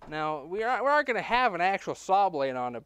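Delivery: loud, high, insistent; emphatic. Real, not acted. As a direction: make the point with force. Emphatic plan explanation.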